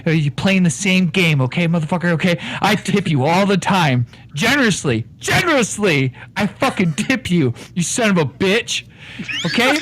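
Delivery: low Irish con man; lightly Irish con man ranting at the barkeep; Irish accent. Acted. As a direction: swagger through it in an Irish brogue. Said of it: "You go right back to your Irish accent".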